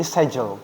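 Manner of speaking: schedule without the k, "sedjul"; British pronunciation. Shown as a demonstration. Teacher explaining the k disappears, British schedule as "sedjul". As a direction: leave the k out of schedule. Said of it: "Jadi K-nya hilang".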